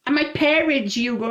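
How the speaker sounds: lightly voiced worried girlfriend; mimicking his girlfriend.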